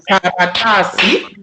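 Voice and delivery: karatasi with ta held long, kara and si short. Shown as a demonstration. Teacher points out the long syllable. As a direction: draw out ta in karatasi. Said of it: "ta is a long sound".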